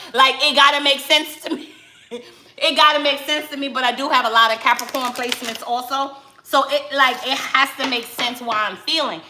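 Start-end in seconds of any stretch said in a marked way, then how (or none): 0.1-3.7 laughing. Real, not acted. Laughing at her own need.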